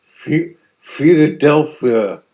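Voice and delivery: put-on Pittsburgh accent, slow and drawn out, L swallowed into the back of the throat. Mocking how Pittsburgh people say Philadelphia, Pittsburgh accent. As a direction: say "Philadelphia" the Pittsburgh way, the L turned into a dark "oo" sound. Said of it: "somebody from Pittsburgh probably pronounces it".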